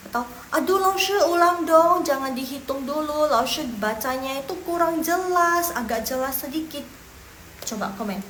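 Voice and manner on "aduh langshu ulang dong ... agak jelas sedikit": pleading. Acted. Teacher voicing students begging for a repeat, pleading. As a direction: plead in a raised, stretched voice.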